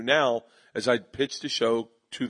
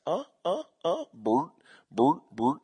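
mock moaning; 4 semitones higher than usual. Acted sex moan in joke.

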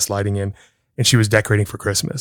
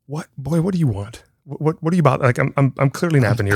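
mildly exasperated retold quote, pitched up; imitating a put-upon napper, higher voice; irritated at being woken; 5 semitones higher than usual. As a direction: act out a groggy dad protesting to his son. Woken from nap by son.

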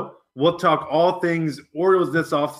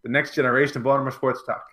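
announcer. Acted. Show intro announcement.

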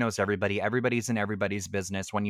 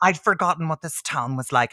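higher-pitched imitated County Wexford accent; 5 semitones higher, 4 dB louder than usual. Film heroine answers her shop boss, lightly hammed Wexford accent. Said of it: "I have to speak in this accent".

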